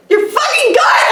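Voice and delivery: laughing. Real, not acted. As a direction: say it while breaking into laughter. Laughs through her own embarrassment.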